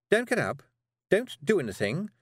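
high, tense, hushed witch voice; Miss Tick voice. Acted. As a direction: keep her still, high and urgent. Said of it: "she said".

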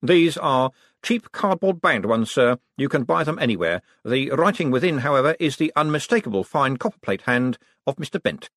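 a fussy clerk reporting; Drumknot. Acted. Clerk Drumknot reporting the fake ledgers to Vetinari, precise.

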